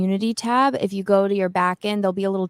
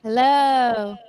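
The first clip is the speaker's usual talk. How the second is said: cave echo; 4 semitones higher than usual. Real, not acted. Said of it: "It's like we're in a cave".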